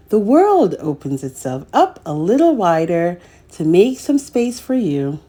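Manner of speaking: gentle, measured picture-book narration; reading to children. A narrator's reading. Storyteller reading a picture book to young children, gently.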